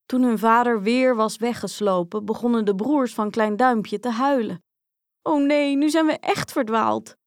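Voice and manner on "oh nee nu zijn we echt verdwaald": put-on higher, lightly whimpering child's lament; mild mock sobbing. A narrator's reading. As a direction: wail a little, lost and upset. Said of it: "snikten ze". (licht gespeeld snikkend)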